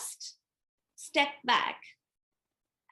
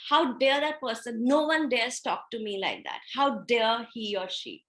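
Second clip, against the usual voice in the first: mildly indignant retold outburst; angry, upset; 4 dB louder than usual. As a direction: re-enact being offended, with a touch of anger. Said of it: "I felt so angry".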